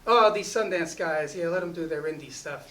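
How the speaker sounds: slow, loud scoffing tease; mock dismissive. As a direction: brush off the indie kids, slowly. The speaker mocking the indie crew.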